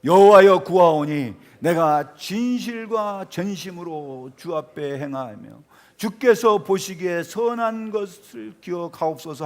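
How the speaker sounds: loud, slow, solemn verse reading; scripture reading. Acted. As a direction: read the prayer out slowly and forcefully. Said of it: "삼 절 읽어봅시다".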